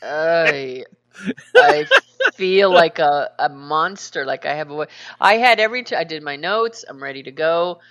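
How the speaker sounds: groggy gravelly morning voice; rough, tired gravelly voice. Real, not acted. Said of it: "record a show with gravelly voice".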